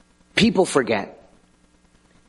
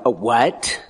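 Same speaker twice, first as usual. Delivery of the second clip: hammed-up indignant outrage; a hint of a jealous girlfriend, half-joking; mock jealous girlfriend. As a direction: play the offended girlfriend who can't believe it. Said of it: "kinda jealous girlfriend".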